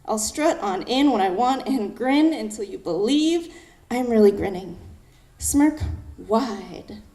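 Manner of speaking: slow, emphatic spoken-word delivery; poetry recitation. Acted. Poet reading her first poem aloud, spoken-word recitation. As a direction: stretch and punch the key words like slam poetry.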